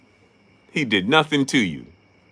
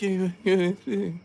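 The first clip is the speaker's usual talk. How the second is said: high, slow squeaky challenge; mock Robert Garcia; slower than usual. Robert Garcia squaring up to Freddie, high and slow. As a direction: drag out the challenge in a high put-on voice. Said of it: "He was like".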